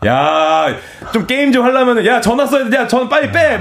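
high-pitched, urgent mock demand; bickering kid. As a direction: squabble over the phone line like a kid. 전화선 두고 다투는 아이 흉내. (높은 목소리로 다급하게 재촉하는 흉내)

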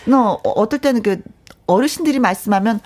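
ordinary talk, nothing marked

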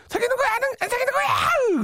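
high-pitched wailing ultimatum, overacted; mock drunken crying. Shown as a demonstration. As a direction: shriek the question through fake tears. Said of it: "술자리에서 또 울면서". (울면서 따져 묻는 흉내)

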